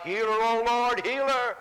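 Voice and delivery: high pleading cry to the Lord; Moses crying out. Acted. Moses pleading with God to heal Miriam, high crying out. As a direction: lift it up, begging for healing. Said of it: "cried out".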